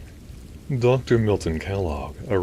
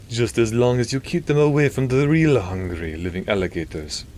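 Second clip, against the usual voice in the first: teasing priest, voice raised in pitch and volume; Father Calabasas; 6 semitones higher, 5 dB louder than usual. A narrator's reading. Priest joking with the doctor about alligators, teasing. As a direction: tease an old friend in character. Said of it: "Father Calabasas teased".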